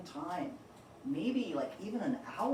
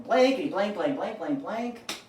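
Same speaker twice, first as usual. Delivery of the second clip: mock cursing; 6 dB louder than usual. Bird's second cursing outburst.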